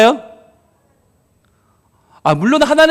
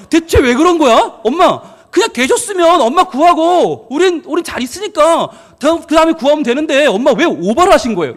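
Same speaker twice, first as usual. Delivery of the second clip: higher, complaining child's voice, hammed-up; mock whiny grown child; 4 semitones higher than usual. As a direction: play the sulky adult kid blaming mom. Grown children quarrel with mother.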